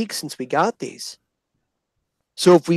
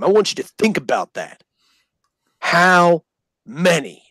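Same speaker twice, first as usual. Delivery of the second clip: stern drill sergeant lecture; 3 semitones higher than usual. Retold or imitated. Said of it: "southern accent dripping with hatred".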